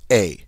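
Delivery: "A" as the vowel in rake; long A. Shown as a demonstration. Teacher isolates the vowel for learners, long A sound. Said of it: "a long A sound in English".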